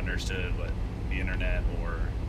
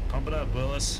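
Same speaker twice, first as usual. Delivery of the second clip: hype call; 6 semitones higher, 5 dB louder than usual. Acted. Cheering on his truck.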